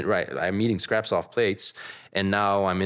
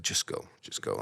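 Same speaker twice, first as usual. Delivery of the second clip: bus driver waving off; 12 semitones lower, 9 dB quieter than usual. Retold or imitated. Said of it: "he's like".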